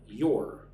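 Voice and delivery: "Your" isolated as the stressed second syllable of prioritize. Shown as a demonstration. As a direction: punch "Your" alone as one firm syllable. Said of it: "The emphasis on the second syllable".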